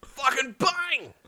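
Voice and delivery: high, drawn-out bang; explosive exclamation. Acted. Narrator voicing a giant impact on the ship, explosive exclamation. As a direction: stretch it out as a big sound effect.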